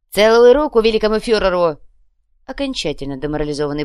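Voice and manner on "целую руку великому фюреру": loud submission. Acted. Demoralised submission.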